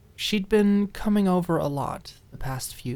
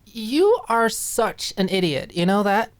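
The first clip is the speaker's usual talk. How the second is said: exasperated chuckle; 8 semitones higher, 4 dB louder than usual. Acted. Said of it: "in between a chuckle and a sigh".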